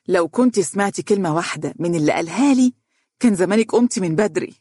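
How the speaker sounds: indignant. Acted. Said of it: "وهي تقول باستنكار".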